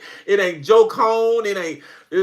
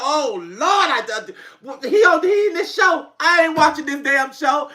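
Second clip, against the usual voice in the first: exasperated outburst; 7 semitones higher than usual. Retold or imitated. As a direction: throw up your hands at the TV. Reacting to Tyler Perry on TV.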